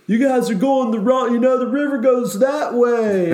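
mock shout to lost rowers; shouting across water. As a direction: yell at them from the boats. Rafters shouting from the river.

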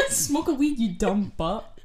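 slow, laughing, dopey taunt; hammed-up dopey voice; mock taunt. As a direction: drag it out like a dim bully. Mocking stoner taunt.

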